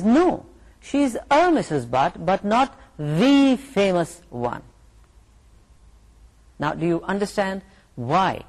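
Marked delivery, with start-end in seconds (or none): 0.0-4.6 slow on not the famous one; stressed the. Shown as a demonstration. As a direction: lean on the in the answer. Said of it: "the person says".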